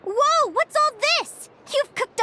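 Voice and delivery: high, slow, delighted gasp of surprise; taken aback by the spread of food; surprised whoa. Real, not acted. She sees the feast Yerva cooked, surprised and delighted.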